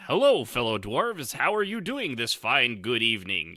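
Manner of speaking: a hint of a mock dwarf, half laughing; dwarven speaker. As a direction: play a hammed-up dwarf hello lightly. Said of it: "Speaks in Dwarven".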